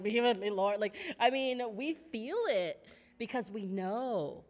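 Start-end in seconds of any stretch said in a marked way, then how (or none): 0.0-0.8 the same lyric said knowingly, convicted; guilty echo. Retold or imitated. Worshipper feeling convicted by the song, knowing echo. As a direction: say it like it suddenly hits home. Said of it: "and you're like".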